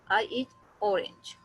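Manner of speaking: slow model sentence, orange stressed on its opening O; stress on first syllable. Shown as a demonstration. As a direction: say it slowly, leaning on the O of orange. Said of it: "हमने ऑरेंज पे उसको".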